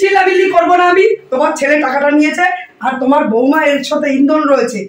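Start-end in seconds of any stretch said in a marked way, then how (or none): 0.0-1.1 defiant angry shout. Acted. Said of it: "এত চিল্লামিল্লি করছো কেন তুমি". (রেগে চেঁচিয়ে বলা)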